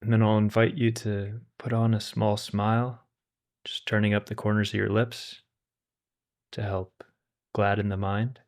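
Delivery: calm, unhurried meditation guide with long pauses; guided meditation. Acted. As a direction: gently guide listeners to settle and relax, leaving space between phrases.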